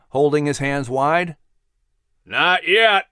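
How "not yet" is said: mild bellow. A narrator's reading. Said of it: "came a bellowing voice".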